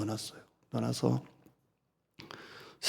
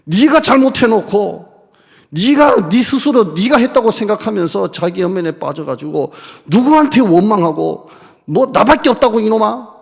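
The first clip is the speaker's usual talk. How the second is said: loud, much higher scolding; mock angry rebuke; 7 semitones higher, 8 dB louder than usual. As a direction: berate him for self-pity. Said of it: "나 같으면 그랬을 것 같아요".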